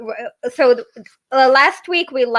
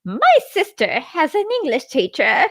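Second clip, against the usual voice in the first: lightly voiced character quote, higher pitch; Lenin; 6 semitones higher than usual. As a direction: attempt the character's English, a little raised. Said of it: "so I can do a better Lenin".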